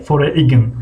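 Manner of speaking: "فوریگن" ending in a sounded g-n; read as spelled. Shown as a demonstration. Teacher repeating the written form, g sounded. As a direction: say "فوریگن" as fo-re-ign. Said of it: "فوریگن نوشته گیه".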